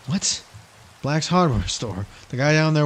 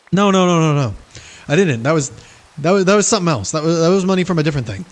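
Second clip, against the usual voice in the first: Brian voice; 3 dB louder, faster than usual. Pretend. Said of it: "Brian Griffin gambles".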